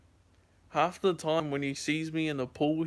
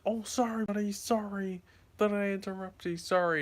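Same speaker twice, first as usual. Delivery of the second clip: tag apology; 5 semitones higher than usual. Retold or imitated. Apologising to the woken dog.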